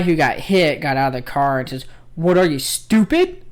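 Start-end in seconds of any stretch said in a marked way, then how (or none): 2.1-3.4 loud, raised-pitch mock outrage; imitated angry yell. Retelling a fender-bender driver confronting the other one, mock angry yell. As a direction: yell it slowly like an indignant driver. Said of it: "yelling at the other dude".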